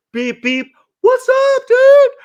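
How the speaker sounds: high, squealed mock shout; loud, very high-pitched friendly yell; imitated drive-by greeting. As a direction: holler like a driver passing a friend. Passing driver greets him.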